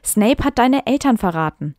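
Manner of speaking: reading her old story with mock drama; dramatic reading aloud. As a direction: perform the text a little theatrically. Reads her teen fanfic aloud.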